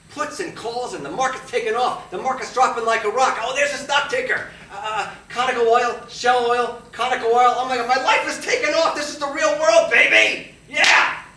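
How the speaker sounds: high, very loud trading-floor frenzy; manic shouting. Acted. Young broker carried away by Wall Street, shouting in manic excitement. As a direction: yell it in wild, building euphoria.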